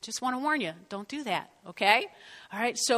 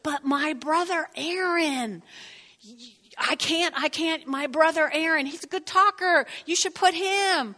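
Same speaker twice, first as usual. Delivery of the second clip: pleading Moses; 4 semitones higher than usual. Retold or imitated. Moses pleading excuses to God.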